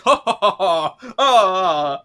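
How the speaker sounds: hearty high pirate ho-ho; swashbuckling pirate chortle; pirate laugh. Retold or imitated.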